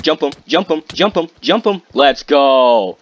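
high, rapid-fire egging on, building to a loud cheer; rally the attack, voice climbing; hyped gamer battle cry; excited urging. Real, not acted. Urges an attack, then celebrates.

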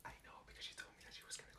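fast hushed whisper. Acted. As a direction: whisper it quickly behind the teacher's back. Whispered aside in class.

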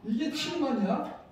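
usual speaking voice

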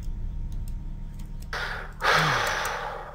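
long airy exasperated sigh. Real, not acted. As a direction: let out a weary breath. Enderman nearby.

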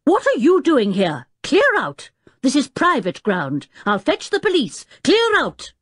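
loud, high-pitched angry roar; booming order to get out; stentorian roar. A narrator's reading. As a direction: roar like a man chasing off trespassers. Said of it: "a stentorian voice suddenly roared".

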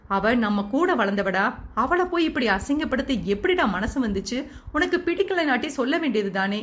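a touch of anger, rising toward the end; mild angry growl. Acted. Brother confronting Kavi over the humiliated bride, mildly angry. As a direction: scold him with restrained anger. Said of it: "என்று கோபமாக உரும".

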